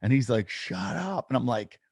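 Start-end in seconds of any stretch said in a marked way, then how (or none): 0.5-1.3 high, hushed-down "no way"; mock amazement, pitched up high; retold disbelief. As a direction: imitate someone who can't believe it.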